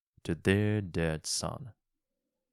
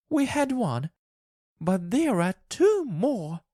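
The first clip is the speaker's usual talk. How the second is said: much higher, frantic, near tears; wild hysterical hope; laughing and crying wildly; 13 semitones higher, 4 dB louder than usual. A narrator's reading. Wife laughing and crying tells husband of the wishes, high. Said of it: "laugh and cry".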